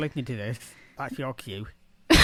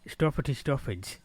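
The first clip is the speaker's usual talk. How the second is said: northern English vowels in "Stuffity stuffage"; northern English accent. Shown as a demonstration. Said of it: "is how we say it here".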